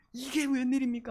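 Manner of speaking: high, lamenting wail.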